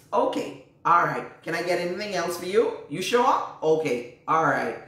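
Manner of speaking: sugary mock niceness while being wronged; mock sweet politeness. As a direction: play the overly polite helper. Acting overly sweet niceness.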